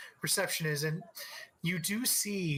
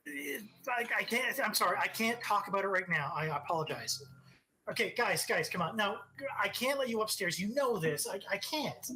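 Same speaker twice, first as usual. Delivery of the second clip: higher, harried pleading; flustered receptionist; 4 semitones higher than usual. Acted. Receptionist begging the reporters, higher harried voice. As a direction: beg the crowd to back off.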